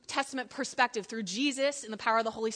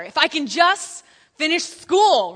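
mock longing plea; 3 semitones higher, 9 dB louder, slower than usual. Mock wishful student.

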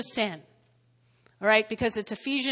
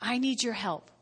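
prayer; 9 dB quieter than usual. Retold or imitated. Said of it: "when you say".

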